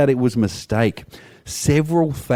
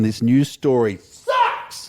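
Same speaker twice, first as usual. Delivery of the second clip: exasperated; much slower than usual. Real, not acted. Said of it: "Oh my God, this story sucks".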